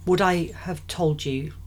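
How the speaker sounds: measured scripture reading; best reading voice. Acted. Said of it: "I'll put my best reading voice on".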